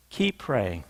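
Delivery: low, soft, drawn-out refrain. Real, not acted. Preacher closing each case with a soft low refrain. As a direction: drop the voice low and quiet on the refrain.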